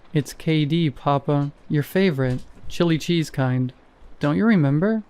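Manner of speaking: put-on a light Russian accent, a scared child pleading; a scared boy's lines in a light Russian accent. A frightened boy answers his startled Papa, in a light Russian accent. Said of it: "Was that a Russian accent?".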